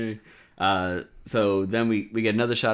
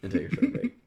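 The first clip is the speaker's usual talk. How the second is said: high squeaky mocking echo; faster than usual.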